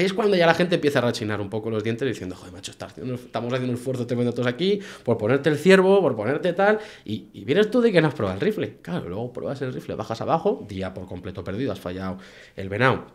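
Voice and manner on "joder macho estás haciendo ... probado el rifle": exasperated. Retold or imitated. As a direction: scold him, growing fed up. Guards grinding their teeth at hunter.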